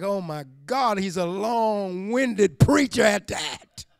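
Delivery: slow, laughing mock groan; laughing complaint. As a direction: laugh through a bored listener's gripe. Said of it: "Peter's in that boat like".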